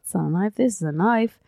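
half-hearted attempt at an Australian accent; amateur Australian accent on a film catchphrase; poor Australian accent. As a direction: try and fail at an Aussie accent. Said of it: "I'm not good at accents".

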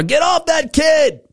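high, slow shouted command; screamed out. Retold or imitated. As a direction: yell it from a passing car. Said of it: "someone screamed out from their car".

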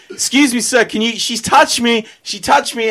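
hammed-up tattling to an authority; retold indignant complaint. Man reporting a charity collector to a policeman, mock-aggrieved.

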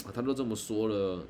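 normal talking voice

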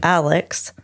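Alex as spelled, ending in a clear ks; spelling pronunciation. Shown as a demonstration. Host explains the spelling, Alex said as written. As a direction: say Alex with the full X. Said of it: "his name is spelled A L E X".

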